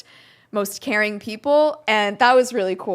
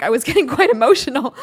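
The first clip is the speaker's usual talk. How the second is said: laughing; 4 semitones higher, 8 dB louder than usual. Real, not acted. Laughs while admitting emotion.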